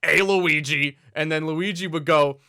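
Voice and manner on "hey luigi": lightly imitated game character, no accent; mock hail without any Italian accent; Mario. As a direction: call out as an un-Italian cartoon plumber. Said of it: "Mario didn't have the Italian accent".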